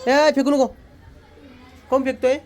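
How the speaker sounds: loud, high scolding call; calling out a warning. Real, not acted. Calling out to stop child throwing. (मोठ्या, चढ्या आवाजात मुलाला दटावणे)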